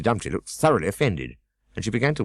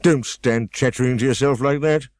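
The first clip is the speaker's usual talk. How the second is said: higher, louder pompous scold; Humpty Dumpty scolding; 6 semitones higher, 5 dB louder than usual. A narrator's reading. Humpty Dumpty scolding Alice, higher and louder. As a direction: snap at the girl from the wall.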